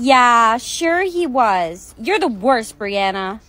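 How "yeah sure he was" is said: slow drawn-out disbelief; sarcastic. Acted. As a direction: drag it out doubtingly. Mocking disbelief.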